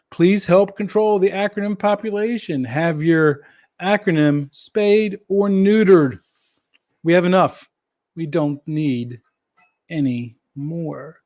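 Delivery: mock-solemn public service appeal; deliberate announcement, slowing down toward the end. Host jokes to viewers about too many acronyms, mock announcement. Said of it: "my public service announcement about".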